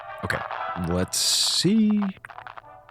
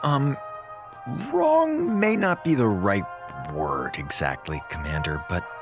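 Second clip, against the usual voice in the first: hesitant hedging; 2 semitones lower than usual. Acted. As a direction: stall before breaking bad news. Eiffel hedges bad news to commander.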